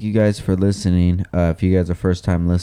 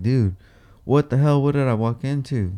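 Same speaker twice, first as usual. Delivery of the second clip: mock stunned, pitched up; bewildered; 6 semitones higher than usual. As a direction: act like you just walked into a shrine. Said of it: "I'm like".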